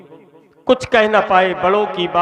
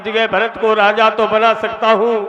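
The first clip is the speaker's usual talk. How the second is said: a hint of a desperate king, pitched higher; pleading king; 4 semitones higher than usual. Dasharatha begs Kaikeyi to spare Rama, lightly voiced, rising anguish.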